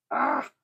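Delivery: short exasperated cry; sudden brief "ah" at a fumble; frustrated "ah". Real, not acted. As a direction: let out a quick vexed exclamation. Fumbles the accessory while fiddling.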